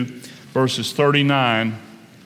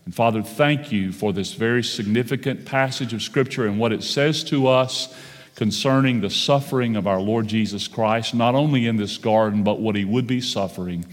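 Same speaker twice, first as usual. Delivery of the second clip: pastoral prayer. Acted. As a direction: pray reverently to the congregation. Leads congregation in prayer.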